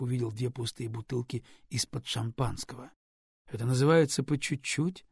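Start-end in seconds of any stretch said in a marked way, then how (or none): 3.5-5.0 reproachful. Acted. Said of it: "с упрёком сказал он".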